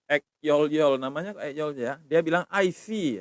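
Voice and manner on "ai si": "I see" high, then falling; shown intonation. Shown as a demonstration. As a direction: lift "I see" like a tone drill. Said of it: "intonasinya ya".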